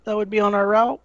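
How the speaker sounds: whisper. Real, not acted. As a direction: question dropped to a whisper. Player trails into a whisper.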